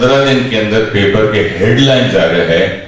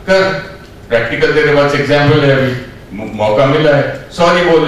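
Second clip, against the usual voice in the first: scolding inner voice; 3 semitones higher than usual. Retold or imitated. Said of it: "मानने अंदर बोला".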